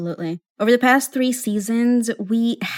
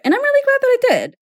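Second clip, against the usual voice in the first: emotional; 4 dB louder, much faster than usual. Real, not acted. Emotional wedding memory.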